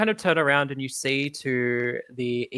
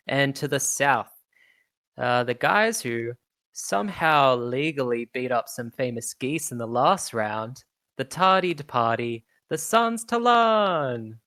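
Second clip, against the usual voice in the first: announcer Sundancer. Acted. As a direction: settle the rowdy crowd with authority. Sundancer introduces team.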